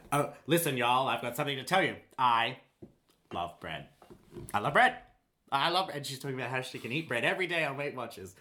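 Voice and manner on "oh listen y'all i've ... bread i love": hammed-up talk-show host proclamation; Oprah. Comedian parodying a Weight Watchers commercial, hammed-up impression. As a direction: proclaim it with dramatic pauses. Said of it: "She's like".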